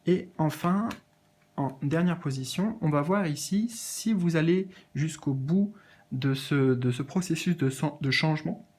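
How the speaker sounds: holding back hiccups; words between hiccups; suppressing hiccups. Real, not acted. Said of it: "j'ai le hoquet".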